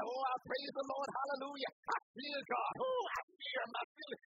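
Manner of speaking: high, showy holy-shouting voice; hammed-up church praise. Churchgoer showing off their fear of God, high and showy. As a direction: overdo the praise for show. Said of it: "all of us in church".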